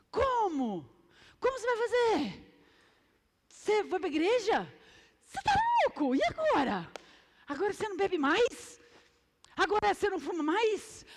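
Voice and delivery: high, loud disbelief; incredulous mocking friend. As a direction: scoff at the friend's new life. Friend mocks new churchgoer.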